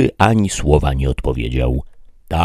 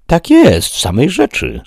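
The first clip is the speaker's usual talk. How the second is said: higher, eager squire's yes; lightly voiced eager servant; Sancho agreeing; 14 semitones higher, 4 dB louder than usual. A narrator's reading. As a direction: jump in to agree with the master.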